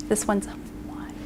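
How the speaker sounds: soft whisper, slow; whispered aside. Shown as a demonstration. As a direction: breathe it so the kids just think it. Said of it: "think the number in our heads".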